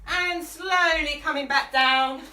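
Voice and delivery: breathless, gasping between phrases; out of breath. Real, not acted. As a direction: talk while winded from the workout. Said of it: "I'm out of breath now".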